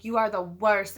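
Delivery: mildly angry, emphatic insult; retold anger. Narrator retelling how she told off Dan, mildly angry. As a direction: deliver the insult with contained anger. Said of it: "so, so angry and so hurt".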